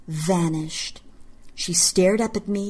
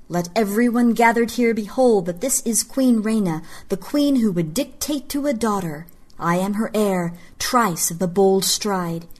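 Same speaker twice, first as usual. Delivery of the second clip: public proclamation. A narrator's reading. Trice addressing the gathered court, solemn proclamation. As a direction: declaim it as a ceremony.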